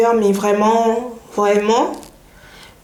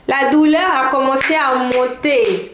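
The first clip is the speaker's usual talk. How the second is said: dramatic slow emphasis; 3 semitones higher, slower than usual. Retold or imitated. Dramatises the pain rising.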